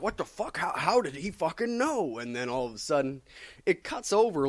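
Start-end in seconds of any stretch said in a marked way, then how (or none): 0.0-2.2 much higher, stunned question; mock baffled Batman. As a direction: sound caught off guard. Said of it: "Batman's just like".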